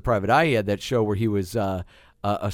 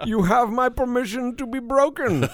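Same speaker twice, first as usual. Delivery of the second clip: high-pitched Russian fighter impression; Ivan Drago voice; 11 semitones higher, 4 dB louder than usual. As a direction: play the menacing boxer for laughs. Riffing on Drago's famous line.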